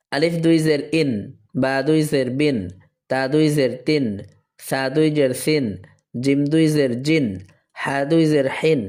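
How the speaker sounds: even spelling recitation, held final n in "ইন", "বিন", "তিন"; double-jer tanween drill. Shown as a demonstration. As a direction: recite each line alike, landing on a long "সিন". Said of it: "এরপরে দেখি আমরা জেরের ক্ষেত্রটা".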